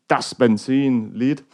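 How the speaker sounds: slow, put-on German accent. Shown as a demonstration. Guitarist naming an amp channel in his best German accent. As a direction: lightly mimic a German accent, drawn out. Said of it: "That's my best German accent".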